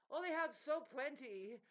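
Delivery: high, loud, drawn-out mockery; mocking quote. Mimics envy of others' plenty.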